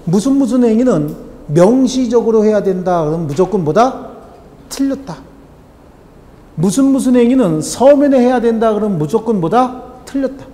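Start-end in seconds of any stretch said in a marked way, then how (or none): 4.7-5.2 high, firm call-out of the answer; emphatic answer. Shown as a demonstration. Teacher calling out the answer for students to repeat, emphatic. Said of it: "teacher has students chant answer". 10.0-10.4 high, firm call-out of the answer; emphatic answer. Shown as a demonstration. Teacher calling out the answer for students to repeat, emphatic. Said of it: "teacher has students chant answer".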